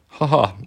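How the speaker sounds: mild mock laugh called out; a proud dad's happy laugh. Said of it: "isäpossu huutaa". (kevyt naurahdus)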